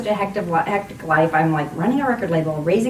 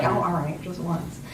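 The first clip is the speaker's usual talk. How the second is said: reluctant agreement; 2 semitones lower, 7 dB quieter than usual. Retold or imitated. Grudging agreement to a director's request.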